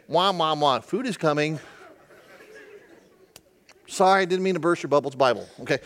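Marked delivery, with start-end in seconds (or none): 0.1-0.8 Charlie Brown wah wah. Retold or imitated. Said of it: "Here's the connection".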